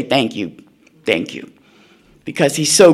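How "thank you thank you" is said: much lower, softer murmured thanks; hushed grateful wife. Retold or imitated. Imagined wife thanking her husband, lower and hushed. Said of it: "would say".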